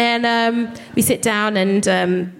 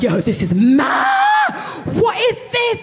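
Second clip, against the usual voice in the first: shocked; 12 semitones higher than usual. Retold or imitated. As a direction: recoil in disgust. Shocked at the shower.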